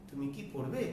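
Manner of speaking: soft, low, brief কি, rising on পড়বে; short কি. Shown as a demonstration. Teacher repeating the yes-no example, short কি. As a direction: keep কি short and lift পড়বে. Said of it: "ছোট করে দ্রুত উচ্চারণ".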